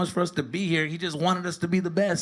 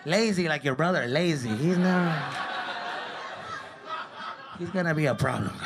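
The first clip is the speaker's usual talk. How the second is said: blaming dad. Retold or imitated. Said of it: "He would blame my mom".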